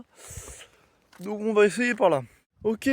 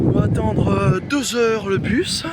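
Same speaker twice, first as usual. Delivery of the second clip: breathless, panting between words; winded from hauling heavy bags; out of breath; 2 semitones higher, 7 dB louder than usual. Real, not acted. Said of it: "Je suis essoufflé".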